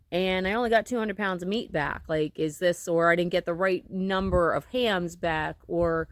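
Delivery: stiff lips from the cold; cold mouth. Real, not acted. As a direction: talk with a cold-numbed mouth. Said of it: "my mouth is cold right now".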